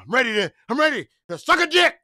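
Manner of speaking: hammed-up eager line; mock eager. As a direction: ham up the horny guy's eagerness. Mock-voicing the guy's horny intent.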